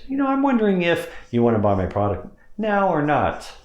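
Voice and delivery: high pitched wondering question. Shown as a demonstration. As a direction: lift it up high, casual. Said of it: "I start out high, high pitch".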